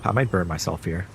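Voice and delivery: talking between sips of hot tea; sipping hot tea. Real, not acted. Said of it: "Let me, let me take a sip".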